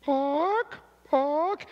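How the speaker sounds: high squawky chicken barks; talking chicken. Acted. Chicken answering the riddle, high and squawky. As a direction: squeak it out like a bird.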